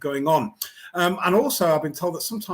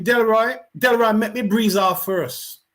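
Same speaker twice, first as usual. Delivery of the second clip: Jamaican patois; 4 semitones higher, 5 dB louder, slower than usual. Retold or imitated. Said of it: "I'll say it in Jamaican patois".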